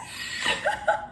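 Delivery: high, airy burst of laughter; real laugh. Real, not acted. Vlogger overjoyed by a friend's gift, laughing. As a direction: laugh helplessly, voiceless and high.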